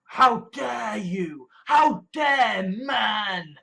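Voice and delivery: drawn-out outraged mock cry; slow hammed-up indignant shout; slow mock outrage. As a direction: wail it like a scandalised prude. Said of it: "is used as, like".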